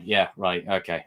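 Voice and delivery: low, unimpressed sarcasm; sarcastic dismissal. Real, not acted. Vlogger scoffing at Scarlet Witch being compared to Anakin, real sarcasm. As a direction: brush it off in disbelief. Scoffing at a suggested video title.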